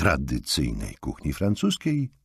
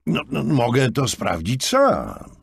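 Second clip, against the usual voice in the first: reassuring; 9 semitones higher, 4 dB louder than usual. A narrator's reading. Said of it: "powiedział Markus uspokajająco".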